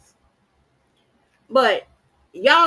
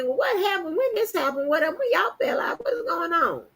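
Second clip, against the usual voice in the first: nosy askers; 5 semitones higher, 3 dB quieter than usual. Retold or imitated. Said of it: "people asking, you know, from time to time ask me".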